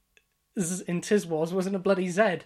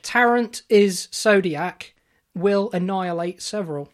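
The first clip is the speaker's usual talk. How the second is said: read out dramatically; 6 dB louder than usual. Shown as a demonstration. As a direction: announce it like a verdict. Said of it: "read that back in one go".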